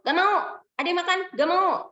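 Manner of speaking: put-on whiny little no from a three-year-old; stubborn toddler. Toddler refusing mother's requests, high and sulky.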